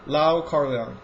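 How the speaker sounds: slow, careful try at "Lau Kar-leong"; unsure pronunciation. Real, not acted. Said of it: "I doubt my pronunciation sometimes".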